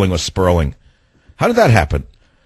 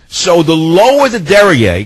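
slow deliberate; 4 semitones higher, slower than usual. Shown as a demonstration. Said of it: "follow the mathematics".

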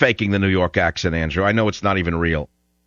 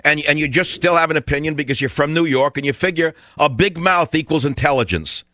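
angry; 6 semitones higher than usual. Real, not acted. Angry radio host berating caller.

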